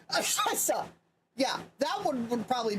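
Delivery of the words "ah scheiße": higher-pitched sneeze on "Scheiße"; imitated sneeze. Shown as a demonstration. Recalling the German sneeze for friends, imitated sneeze. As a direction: fake a sneeze that bursts into "Scheiße". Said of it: "the one that basically goes".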